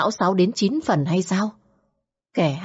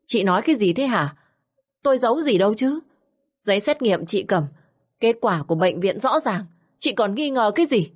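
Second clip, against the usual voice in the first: Xuyến's voice, higher and rushed, defensive; flustered denial; 4 semitones higher than usual. Acted. Frightened mistress fending off questions, rushed and higher-pitched. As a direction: deny it fast, caught out and scrambling.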